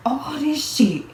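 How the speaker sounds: breathy whisper under her breath; whispered aside. Real, not acted. Aside about all the clothing layers.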